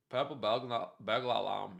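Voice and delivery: hesitant, half-hearted Scottish accent; attempted Scottish accent. Shown as a demonstration. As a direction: have an unsure go at a Scottish accent. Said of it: "like, your Scottish accent".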